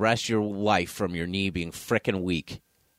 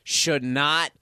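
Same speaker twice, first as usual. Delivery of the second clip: very slow deliberate lecture; 5 semitones higher, much slower than usual. Real, not acted. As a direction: spell it out slowly. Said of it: "mocking slow emphatic".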